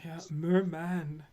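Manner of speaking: whispering. Real, not acted. Whispered aside.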